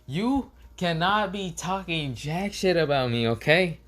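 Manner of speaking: high-pitched, indignant telling-off; Konohamaru. Acted. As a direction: scold the kid in an indignant high voice. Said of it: "Konohamaru says".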